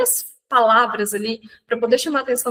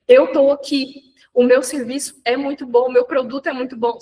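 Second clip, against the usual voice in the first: half-joking shouted sales pitch; mock shouting; 3 dB louder than usual. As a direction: hawk it like a street vendor at first, then settle. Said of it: "começar a gritar".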